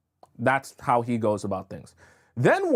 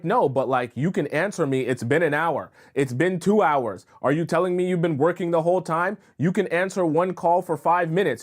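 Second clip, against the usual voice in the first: mock indignant boyfriend, pitched up; insistent complaint; 4 semitones higher than usual. Man badgering her for not answering his calls, mock insistent. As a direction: press the point with mild exasperation.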